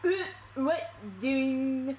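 slow attempt at a child puppet voice; a hint of a put-on kid voice; Jeffy. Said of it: "let me hear your Jeffy voice".

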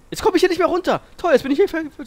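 loud, high-pitched complaint; exasperated. Real, not acted. Player stuck up high in a game, loud exasperation.

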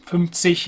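"Fünfzig" ending in a soft ich sound. Shown as a demonstration. Teacher explains the G, "Fünfzig" with soft ch ending. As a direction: end "Fünfzig" like the German word ich. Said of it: "is like saying ich".

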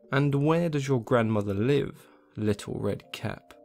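lightly voiced cunning wolf; sly wolf. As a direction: coax it out of her slowly. Wolf questions girl.

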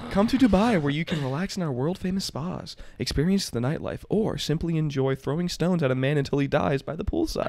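upbeat TV ad pitch; infomercial. Pretend. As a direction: sell it like a late-night commercial. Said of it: "I'm gonna read this like an infomercial".

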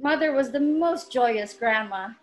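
measured poetry reading with long pauses between phrases; unhurried spoken-word recital of a personal poem. Acted. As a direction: recite it line by line, letting each phrase settle. Reads her poem aloud over music.

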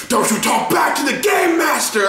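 high, laughing mock yell; mock shout. Friend yelling at him as game master, laughing mock shout. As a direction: bark it like an offended game master. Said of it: "And he's like".

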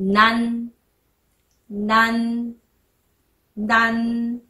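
なん ending in a held n, tongue behind the teeth; final n sound. Shown as a demonstration. Teacher demonstrates なん for learners, held final n. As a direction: say なん and sustain the closing n. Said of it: "んになります".

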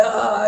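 mock attacking yell; imitated scream. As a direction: mimic a roommate's sudden scream without full volume. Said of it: "screaming like this".

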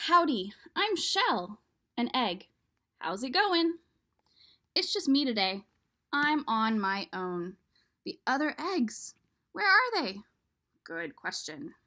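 lightly voiced friendly egg, chatty; a hint of a folksy little egg saying howdy; cheerful egg character. Shell the egg greeting the reader, lightly voiced and friendly.

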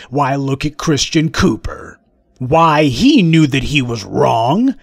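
slow, smug mock drawl of a bigot; a hint of a smug bigot, slow. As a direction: lightly parody a smug racist, slowed down. Voicing white supremacist talking point.

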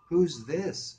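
high, loud demanding female voice; irritated woman. Acted. Woken woman challenges a late caller, irritated and high. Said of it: "That sort of scared me".

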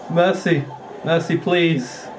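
mock pleading. Losing gamer begs opponent, mock pleading. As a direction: beg playfully for mercy, drawing it out. Begging as he loses the game.

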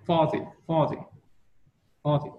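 barely touch the second syllable of "forty"; very light D sound. Shown as a demonstration. Teacher correcting a student's ending, very light D in "forty". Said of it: "cái âm D này chị đọc rất là nhẹ".

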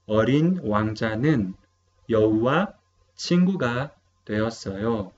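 어린 왕자는 여우와 친구가 되었어요 read quickly in native Korean; model Korean sentence. Shown as a demonstration. (lectura modelo en coreano)

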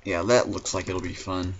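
dry sarcastic remark. Acted. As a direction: say it so it clearly means the opposite. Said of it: "he said sarcastically".

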